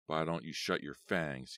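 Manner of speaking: a short, mildly sharp retort; snapped. Acted. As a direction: snap it back at her. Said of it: "Gabri snapped".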